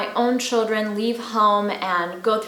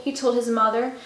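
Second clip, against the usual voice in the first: gentle storybook narration; reading to children. A narrator's reading. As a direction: read it like a bedtime story. Reads a picture book to children.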